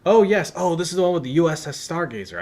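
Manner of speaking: high, quick excited voice; light up at the memory. Real, not acted. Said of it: "I say that like I'm excited".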